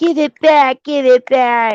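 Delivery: put-on voice for a dog. Voicing what the dog wants while it wags its tail: put-on voice of the dog. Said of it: "He's like".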